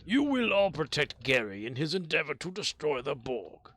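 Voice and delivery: Gary proclaiming himself a Klingon; mock Klingon declaration. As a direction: announce it like a warrior. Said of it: "I said".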